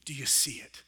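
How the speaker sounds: hushed, breathy question to the room; whisper. Real, not acted. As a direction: whisper it as if sharing a secret. Preacher hushes to congregation.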